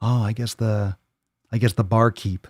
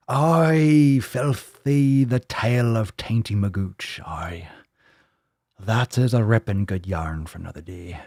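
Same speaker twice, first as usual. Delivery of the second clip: Irish pirate. Acted. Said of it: "turning Irish and pirate".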